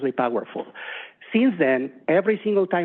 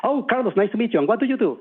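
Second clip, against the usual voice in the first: higher-pitched, lively meet-and-greet; eager greeting; 6 semitones higher than usual. Retold or imitated. Presenter Jerry greets Carlos after the talk, eager and higher. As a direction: greet a new acquaintance with lifted pitch. Retold friendly first-meeting greeting.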